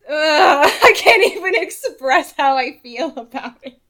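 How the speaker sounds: overcome, half laughing half crying; laughing through tears. Real, not acted. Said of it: "I start to get teary-eyed".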